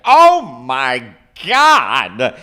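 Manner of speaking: drawn-out loud startled gasp; a hammed-up frightened cry; imitating Nick's fright. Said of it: "he's like".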